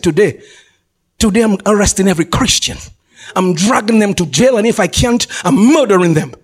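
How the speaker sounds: low, menacing Saul, acted out; breathing threats. Preacher acting Saul vowing to arrest every Christian, breathing threats. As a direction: threaten them in a low, measured voice. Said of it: "breathing out threatenings mean".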